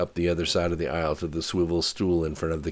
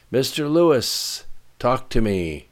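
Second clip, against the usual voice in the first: colonel raising his voice, higher and louder; raised voice; 8 semitones higher, 7 dB louder than usual. A narrator's reading. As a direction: call out sharply to a subordinate, voice lifted. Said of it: "as he raised his voice".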